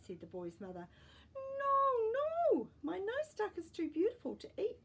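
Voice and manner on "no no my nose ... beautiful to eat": put-on high, loud pleading child; boy pleading to save the duck; boy crying out. A narrator's reading. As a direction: beg high and loud like a desperate little boy. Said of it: "cried the boy".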